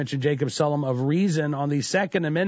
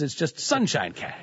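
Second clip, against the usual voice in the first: slow, drawn-out sarcastic sweetness; mock cheery; 3 semitones higher than usual. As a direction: stretch it out with mock delight. Sarcastic rosy renaming of dark money.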